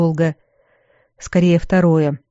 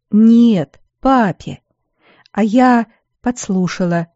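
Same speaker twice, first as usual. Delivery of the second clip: higher, sobbing admission; owning up through sniffles; sobbing confession; 5 semitones higher, 3 dB louder, slower than usual. A narrator's reading. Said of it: "призналась Тильда, снова всхлипнув".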